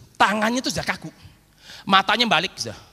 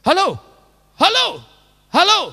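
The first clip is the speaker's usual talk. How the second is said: crying wife's hello; 12 semitones higher, 7 dB louder than usual. Retold or imitated. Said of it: "tangisan seorang wanita".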